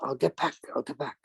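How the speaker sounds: put-on light French Canadian accent on a ref's brush-off; a hint of French Canadian, casual. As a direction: lightly imitate a Quebec referee stalling. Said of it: "in a French Canadian accent".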